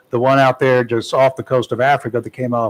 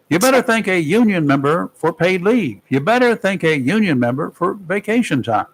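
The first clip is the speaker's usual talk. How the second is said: quoting Kamala; 5 semitones higher than usual. Retold or imitated. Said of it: "She said".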